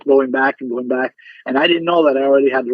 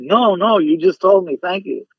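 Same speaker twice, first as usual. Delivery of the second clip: higher, bubbly retelling of his own joy; retold excitement; 5 semitones higher than usual. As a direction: relive the thrill of the news. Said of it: "I got so excited".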